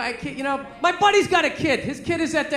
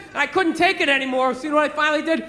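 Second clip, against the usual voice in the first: usual speaking voice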